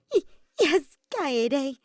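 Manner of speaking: high, cracking, trembling yes; shivering reply. Acted. Miu shivering after Kaede scolds her, high trembling answer. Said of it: "made her shiver".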